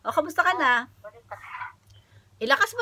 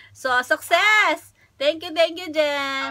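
triumphant; 4 semitones higher, 4 dB louder, much slower than usual. Real, not acted. Celebrating prank result.

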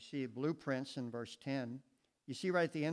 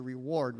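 "reward" said alone, firm and a little louder; emphasizing reward; 5 dB louder than usual. Shown as a demonstration. Preacher stresses "reward" to his congregation. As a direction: lean on the word "reward". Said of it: "the reason I'm emphasizing that word there".

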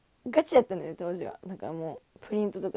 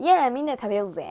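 lively invite; 3 semitones higher, 8 dB louder, faster than usual. Retold or imitated. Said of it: "みたいな".

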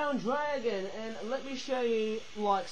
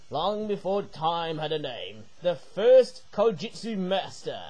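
Sensei impression; 3 semitones lower, slower than usual. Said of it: "do some weird Sensei impression".

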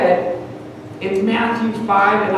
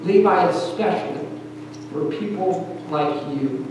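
softer and lower, tender quoted reply; gentle smiling reassurance; 4 semitones lower, 7 dB quieter than usual. Retold or imitated. Jesus answering Levi's doubt, gentle and reassuring. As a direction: reassure him quietly, with a smile in the voice. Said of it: "would just smile and look at him and say".

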